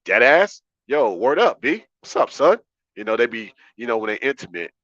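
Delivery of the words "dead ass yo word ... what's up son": mock New York girl. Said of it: "They be like".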